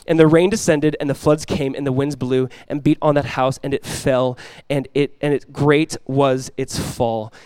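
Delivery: restrained, falling delivery, drawn out at the end; subdued scripture reading. Real, not acted. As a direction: let the verse sink gravely to its close. Reads the fall, voice dropping.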